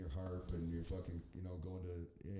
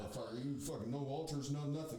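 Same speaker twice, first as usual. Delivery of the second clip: rising indignant rant; 6 semitones higher than usual. Retold or imitated. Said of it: "You're like".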